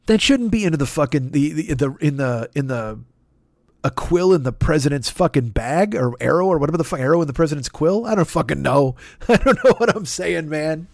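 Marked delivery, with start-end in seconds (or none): none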